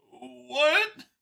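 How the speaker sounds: high, loud alien yelp; a sharp startled what; startled Xeno. A narrator's reading. Xeno caught off guard by Vincent, high startled yelp.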